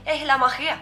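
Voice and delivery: "Eh, la Maria" with a Danish R; Danish pronunciation. Shown as a demonstration. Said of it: "I have to say".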